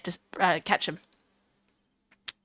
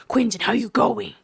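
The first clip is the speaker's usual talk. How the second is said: a light Australian "how you going"; lightly drawled Aussie "Quentin, how you going"; casual Aussie greeting. Shown as a demonstration. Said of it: "Like that, like that".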